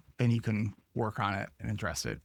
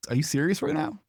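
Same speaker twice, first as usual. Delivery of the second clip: higher, stunned "are you serious"; incredulous disbelief; 7 semitones higher than usual. Retold or imitated. Retelling her reaction to her mother, incredulous. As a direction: ask it in shocked disbelief. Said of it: "And I was like".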